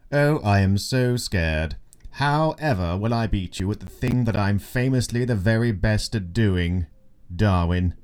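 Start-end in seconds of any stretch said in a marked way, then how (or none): 0.1-6.9 sarcastic. Acted. Darwin mocking McCormick's challenge.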